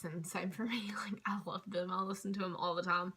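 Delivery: breathy whispered aside with a little laugh. Real, not acted. Telling the viewers she loves the station too, in a whisper. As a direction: drop to a whisper as if sharing a secret.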